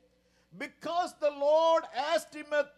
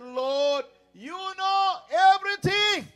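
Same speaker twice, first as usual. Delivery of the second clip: raised, louder anguished plea; Peter pleading; 6 semitones higher, 5 dB louder, slower than usual. Acted. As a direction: cry it out as grieving Peter. Peter's anguished reply voiced.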